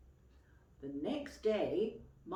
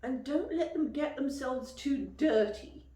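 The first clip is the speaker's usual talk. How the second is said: higher, louder reading of the list; 8 semitones higher, 8 dB louder than usual. Acted. Reading Mummy's instructions to the aunt, a bit louder. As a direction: read out Mummy's instructions firmly.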